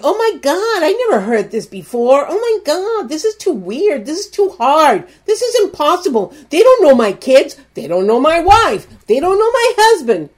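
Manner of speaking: high, exasperated mock panic; overwhelmed complaint. A struggling listener protesting the message, mock exasperated. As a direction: whine as if it's all too much. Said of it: "and you're going".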